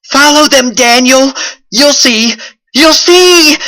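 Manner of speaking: high, loud, haunting voice; echoing voice in his head. A narrator's reading. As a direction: call out like a ghostly echo. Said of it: "Felix's voice echoed in his head".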